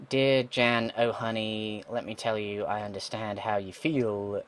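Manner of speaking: reading a letter in a light Walken-style cadence, slowing toward the end; a hint of a Walken drawl, pausing oddly; Christopher Walken impression. Gamer reading a letter to Jan, lightly doing the Walken voice. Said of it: "I'm gonna stop doing Christopher Walken".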